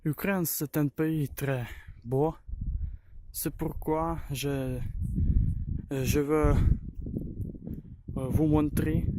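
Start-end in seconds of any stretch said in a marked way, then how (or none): 0.0-4.2 halting French with a Ukrainian accent; non-native French, searching for words; broken french. Real, not acted. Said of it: "Je parle un peu français".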